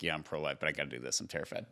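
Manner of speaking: softly voiced fearful woman; scared voiced woman. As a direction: murmur it like a scared young mother.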